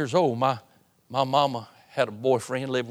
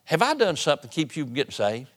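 retold frustration; 3 semitones higher than usual. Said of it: "a little bit angry with him".

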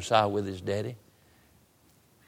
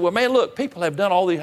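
high, loud retold exasperation; fed up; 7 semitones higher, 4 dB louder than usual. Preacher retelling his confrontation with the young man, fed up. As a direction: lose patience with him, voice raised. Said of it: "I'm tired of fooling with you".

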